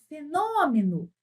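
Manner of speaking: "fenômeno" chamado, com a tônica alongada; chamando a palavra. Shown as a demonstration. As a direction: chame "fenômeno" como quem chama alguém. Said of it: "você canta a palavra ou chama". ("fenômeno" em tom de chamado)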